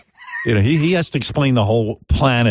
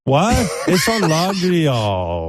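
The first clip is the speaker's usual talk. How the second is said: high, cooing naive wonder; long high "oh" of amazement; Chinny impression; 4 semitones higher, slower than usual. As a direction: marvel in a high, broken-English voice. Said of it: "brings her to a room and go".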